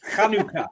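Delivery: Hanukkah with a scraped kh at the start; throaty Hanukkah. Shown as a demonstration. Showing a mate how it's said, throaty "Hanukkah". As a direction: say "Hanukkah" like something's caught in your throat. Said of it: "like you got something in your throat".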